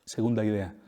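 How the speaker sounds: ordinary talk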